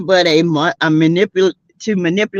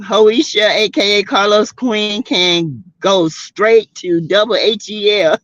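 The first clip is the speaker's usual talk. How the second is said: put-on lightly done Jamaican accent, as her uncle; a hint of a Jamaican uncle telling him off. Host curses the ex in a light Jamaican uncle accent. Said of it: "in my uncle Jamaican voice".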